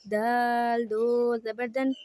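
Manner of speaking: दाल दो ज़बर दन said slowly, या left silent; spelling demo. Shown as a demonstration. Teacher shows reading tanween without the ya. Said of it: "इस तरह पढ़ेंगे".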